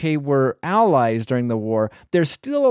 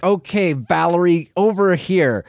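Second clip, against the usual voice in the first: tag; 3 semitones higher, 3 dB louder than usual. Retold or imitated. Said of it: "on purpose getting his, her name wrong".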